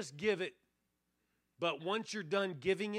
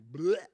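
sudden loud "blech"; mimed unloading noise; 8 dB louder than usual. Retold or imitated. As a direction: dump it all out in one loud blurt. Imitates unloading everything in prayer.

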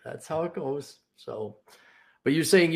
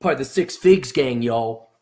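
louder gang shout-out with a hint of swagger; mock gang style; 7 dB louder than usual. Host pretending to represent his six-figs gang, mock gang style. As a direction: lightly claim the crew like a gang member. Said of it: "like the gang style".

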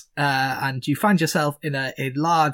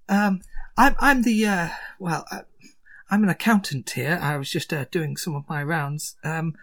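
high, fussy accountant voice; flustered accountant; 6 semitones higher than usual. Acted. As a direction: stammer politely as the accountant.

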